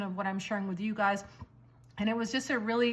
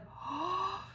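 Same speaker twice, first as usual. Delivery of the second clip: shared gasp; 8 semitones higher, 7 dB quieter than usual. Retold or imitated. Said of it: "We looked at each other like".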